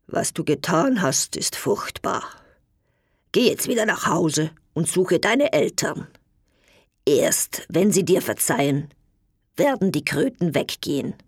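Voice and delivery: grave and grieving verdict; sad. Acted. Pope sadly telling the knight to find his parents. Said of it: "sagte traurig".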